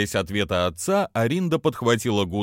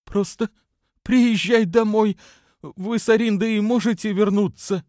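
strained hoarse voice; 12 semitones higher, 4 dB louder than usual. Pretend. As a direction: squeeze the voice as if short of breath. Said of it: "сдавленный и сиплый голос".

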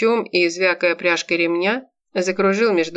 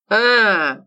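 gleeful; 4 semitones higher, 5 dB louder than usual. Acted. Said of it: "обрадовался охранник".

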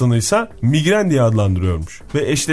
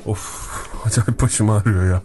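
low groan with a laugh slipping in; lightly played low male grumble; suffering man; 5 semitones lower than usual. Man complaining about his headache once more, grumbling. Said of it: "Sen erkek yapıyor".

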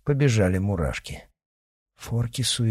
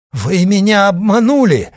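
loud, much higher furious shout; angry outburst; 12 semitones higher, 9 dB louder than usual. A narrator's reading. Father shouts at the men who deceived him. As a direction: hurl it at them in rage. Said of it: "рассерженно бросил отец".

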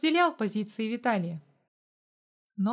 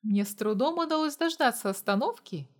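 usual speaking voice

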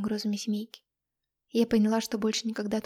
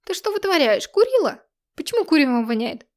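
angry scolding; 7 semitones higher, 7 dB louder than usual. A narrator's reading. Mother scolding daughter, smoke smell.

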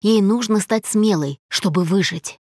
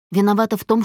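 usual speaking voice

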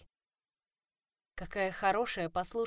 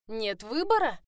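mocking laugh; 4 semitones higher, 8 dB louder than usual. A narrator's reading. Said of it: "издевательски засмеялась я".

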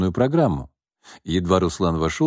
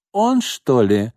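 slow, appraising drawl; vulgar girl voice; 4 semitones higher, much slower than usual. Acted. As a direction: size him up lazily. Prostitute sizing him up.

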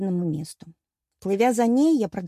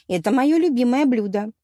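with dignity; 4 semitones higher, 5 dB louder than usual. A narrator's reading. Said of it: "с достоинством добавила".

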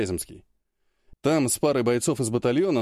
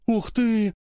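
high amazed gasp of words; a bright burst of wonder; ух ты, high and impressed; 10 semitones higher than usual. Acted. Olga amazed at languages.

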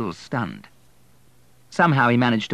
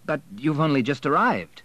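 raised-pitch, mildly dismayed protest; 6 semitones higher than usual. A narrator's reading.

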